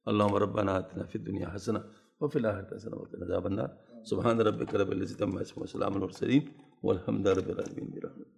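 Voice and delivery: low, steady recited dua; closing prayer. Acted. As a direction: murmur the closing Arabic prayer evenly. Closing supplication.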